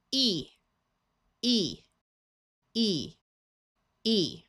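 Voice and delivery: E drawn out as a long ee; long E sound. Shown as a demonstration. Teacher demonstrating the long E sound, drawn out. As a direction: say E long and bright. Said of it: "has a long E sound".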